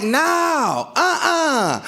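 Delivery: high-pitched mock defiant wife; wife's refusal. Wife refusing to unlock the door, defiant high voice.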